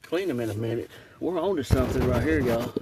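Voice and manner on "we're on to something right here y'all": eager and a bit louder; thrilled at a find; excited. Real, not acted. Excited find while digging.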